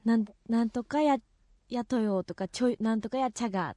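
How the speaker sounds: casual Miyazaki dialect examples. Shown as a demonstration. Guest shows the hosts local endings, Miyazaki dialect. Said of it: "宮崎弁ってどんなのがあるんですか".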